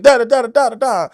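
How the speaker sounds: loud, high, yelled delivery; hammed-up yelling of every line; mock yelling lines. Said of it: "I'm yelling everything".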